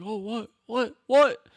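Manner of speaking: hammed-up old-timer reacting; mock old man. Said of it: "like, an old".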